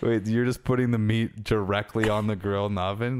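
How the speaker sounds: a friend who can't believe it; incredulous. Retold or imitated. Cousin's incredulous reply.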